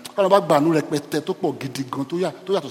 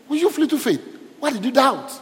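Jesus rebuking; 10 semitones higher than usual. Acted. Preacher voicing Jesus.

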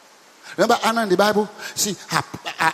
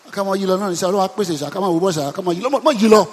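mock lazy, mumbled praying; half-hearted prayer. Preacher mocking a lukewarm prayer, half-hearted mumble. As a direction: pray as if you barely care. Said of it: "Don't just kind of".

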